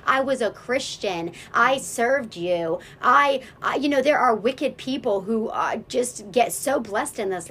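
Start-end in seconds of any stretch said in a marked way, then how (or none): 0.1-3.8 angry demand. Retold or imitated. Angry demand at God retold.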